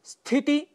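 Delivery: स्थिति as "sthiti", nothing before s; correct pronunciation. Shown as a demonstration. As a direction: start स्थिति straight on the cluster. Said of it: "यह इसका शुद्ध उच्चारण है". (स्थिति का शुद्ध उच्चारण)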